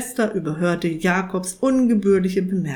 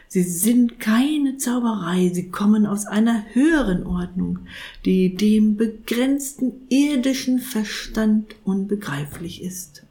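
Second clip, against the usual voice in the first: reverent. Acted. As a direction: speak of the holy order with awe. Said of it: "mit ehrfürchtiger Stimme".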